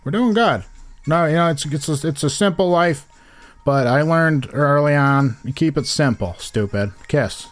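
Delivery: lightly voiced Glens Falls mill retiree; a hint of a proud small-town Glens Falls local. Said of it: "you're like".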